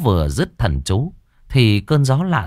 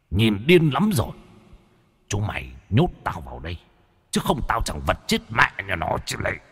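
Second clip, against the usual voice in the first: ghost crying out; 4 semitones lower, 5 dB quieter than usual. A narrator's reading. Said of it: "cái vong mới kêu lên".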